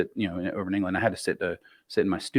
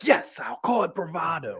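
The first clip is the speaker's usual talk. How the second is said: higher, slow English bartender agreeing; 9 semitones higher, slower than usual. Retold or imitated. Steve the bartender agreeing about American bravado, English voice. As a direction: concede it in a put-on English lilt. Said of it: "He is trying to do an English voice".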